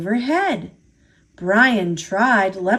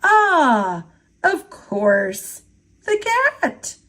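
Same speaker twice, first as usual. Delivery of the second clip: yawning; 5 semitones higher, slower than usual. Acted. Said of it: "Sean yawned".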